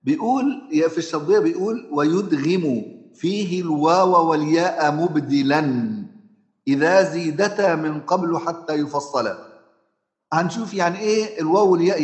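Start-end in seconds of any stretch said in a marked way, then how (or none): 1.9-9.4 slow, chanted recitation of a teaching verse. Shown as a demonstration. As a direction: intone the verse like a Quran teacher.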